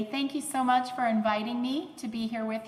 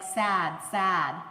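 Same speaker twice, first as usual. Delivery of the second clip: imitating aphasic speech; 3 semitones lower, 4 dB louder than usual. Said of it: "So she will say things like".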